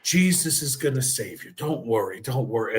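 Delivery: lightly voiced reassuring aunt; imitating Aunt Millie. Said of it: "she would always go".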